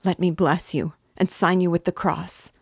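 she hurries to bless him; tender mother. Acted. Mother blessing her son before he leaves.

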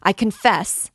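loud, high plea of surrender; anguished shout; desperate cry. A narrator's reading. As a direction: cry out to stop the pain. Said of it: "cried the miserable girl".

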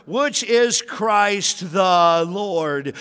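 slow, loud, high proclamation; thundering pulpit declaration; preaching at full force. Real, not acted. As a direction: shout it out like the climax of the sermon. Climactic preaching shout.

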